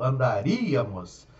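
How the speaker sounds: "andaríamos" slow, stress on rí; stress off the root. Shown as a demonstration. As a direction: draw out "andaríamos", hitting rí.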